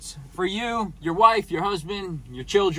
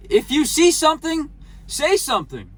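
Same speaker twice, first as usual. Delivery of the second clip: quoting the slogan; 7 semitones higher than usual. Retold or imitated. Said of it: "like New York City says".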